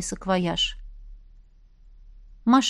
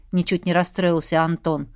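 plain reading voice

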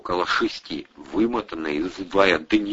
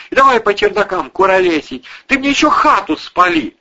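higher, loud nagging woman's voice; angry housewife berating drunk tenants, higher; scolding landlady; 13 semitones higher, 6 dB louder than usual. A narrator's reading. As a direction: tear into the lazy lodgers.

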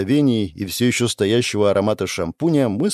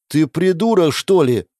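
hissed insult; 7 semitones higher, 4 dB louder than usual. Acted. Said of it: "зашипела Вайлет".

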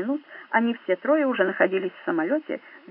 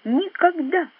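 a higher, louder shout; higher yelled refusal; 9 semitones higher, 3 dB louder, slower than usual. A narrator's reading. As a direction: cry out the word with defiance. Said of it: "закричал он".

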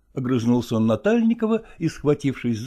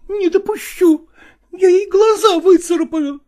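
high, louder tearful cry; tearful outburst; 7 dB louder than usual. Acted. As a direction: burst out through tears. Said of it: "воскликнула она / были слёзы".

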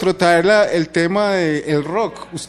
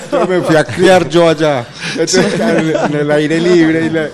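laughing; 5 dB louder than usual. Real, not acted. Joking about raising himself.

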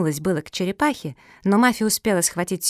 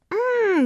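muffled high mmm through a gag; dog trying to speak through a napkin; gagged mumbling. A narrator's reading. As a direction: hum in protest with a mouth stuffed shut. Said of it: "замычала Куки".

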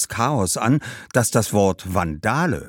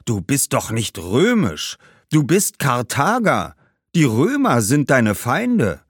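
a hint of a scolding ghost; Hannibal's ghost; 5 semitones higher, 4 dB louder than usual. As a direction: insist emphatically to the boy. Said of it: "rief Hannibals Geist". (mahnender Geist, nachdrücklich)

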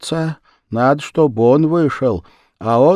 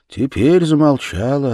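ordinary delivery, nothing marked

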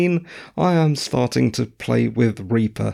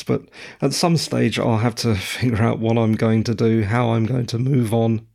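croaky voice. Real, not acted. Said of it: "sorry about the croaky voice".

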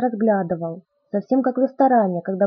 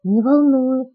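firm answer, a little higher; 4 semitones higher, 4 dB louder, slower than usual. A narrator's reading. Bella reassures Edward she doesn't care, firmly. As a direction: answer firmly, leave no doubt. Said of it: "твёрдо ответила я".

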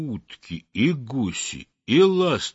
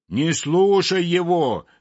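calling out; 7 semitones higher, 3 dB louder than usual. A narrator's reading. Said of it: "крикнул трубочисту из воды Ёрш Ершович".

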